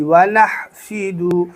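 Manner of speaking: وَنَحْفِدُ with ح from the throat; throaty big ha. Shown as a demonstration. Teacher shows the big ha, وَنَحْفِدُ with throat ح. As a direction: say وَنَحْفِدُ slowly, breathy friction on ح. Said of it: "حلق سے آواز نکالنی ہے بڑی ہا کی".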